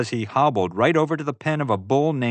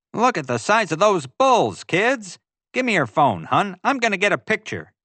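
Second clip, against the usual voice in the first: high, loud, eager tourist calling to his family; oblivious tourist dad, excited; 9 semitones higher, 4 dB louder than usual. A narrator's reading. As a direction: call out to the kids, pitched way up. Voices Morton, the tourist.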